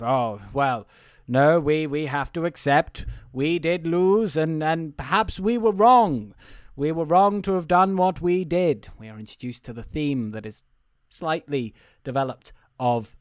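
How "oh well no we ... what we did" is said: slow, deliberate speechifying; mock rousing speech. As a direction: address the crowd, measured and a little louder. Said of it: "a rousing speech of".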